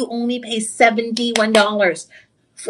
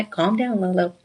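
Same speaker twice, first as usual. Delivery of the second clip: self-soothing; 4 semitones lower than usual. Real, not acted. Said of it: "I have to tell my".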